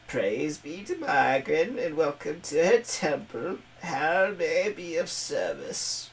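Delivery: a hint of a sweet old lady; lightly voiced old woman greeting. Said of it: "I'm doing that old lady voice".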